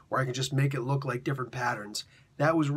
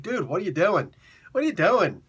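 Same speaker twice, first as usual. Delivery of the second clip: exasperated dude; 3 semitones higher, 4 dB louder than usual. Retold or imitated. Frustrated reader exclaiming at comic.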